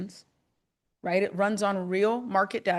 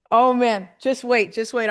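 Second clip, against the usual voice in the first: louder bursts of real excitement; can barely hold it in; excited; 5 dB louder than usual. Real, not acted. Host thrilled to reveal the next feature, loud. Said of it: "Oh, I'm getting so excited".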